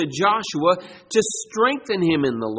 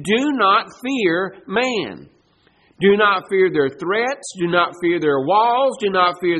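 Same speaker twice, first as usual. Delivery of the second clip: slow forceful exhortation. Acted. Preacher exhorting congregation.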